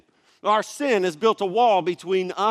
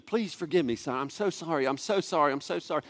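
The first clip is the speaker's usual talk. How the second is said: softer, repeated pleading, retold; pleading apology; 6 dB quieter, faster than usual. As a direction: re-enact begging a child's forgiveness under your breath. Re-enacts frantic apology to crying son.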